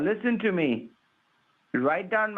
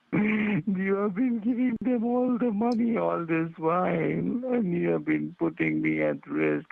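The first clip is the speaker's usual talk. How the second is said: crying. Pretend. Scammer claiming to save the caller, crying. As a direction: plead as if in tears. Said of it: "please don't cry".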